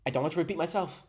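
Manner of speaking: imitated stereotypical Asian accent; Asian accent demo. Shown as a demonstration. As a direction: demonstrate the put-on Asian accent on "repeat". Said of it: "saying it fast".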